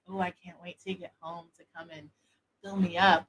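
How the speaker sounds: soft, hushed and seductive; sensual voice. Shown as a demonstration. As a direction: purr it like a voice note to a lover. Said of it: "I will say it in a sensual and erotic way".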